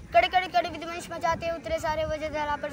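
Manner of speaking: driving rhythmic poem delivery; full-voiced recital. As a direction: declaim the verse in full voice. Full-voiced repeat of verse. (पूरे स्वर में ओजस्वी कविता पाठ)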